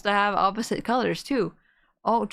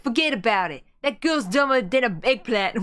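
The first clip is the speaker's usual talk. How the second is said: lightly voiced Italian-American mobster; a touch of Italian-American wiseguy accent. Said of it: "like, an American Italian accent?".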